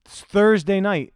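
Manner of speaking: speaking through a yawn; slow, stretched yawning words. Real, not acted. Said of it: "are you yawning".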